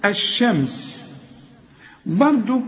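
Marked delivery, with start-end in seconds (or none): 0.1-1.1 الشمس with the lam silent, ash-shams, slow; sun letter demo. Shown as a demonstration. Teacher demonstrating الشمس with a silent lam. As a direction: say الشمس merging the lam into the shin. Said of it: "اللام دي اهي اسمها لام شمسية".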